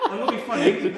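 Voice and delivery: laughing. Real, not acted. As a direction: speak through the giggles. Laughing at dice luck.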